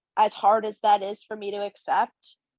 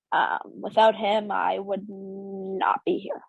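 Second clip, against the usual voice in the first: slow, choked-up pauses; real emotion catching in the throat; slowing right down, moved; getting emotional; much slower than usual. Real, not acted. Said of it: "I get emotional talking about him".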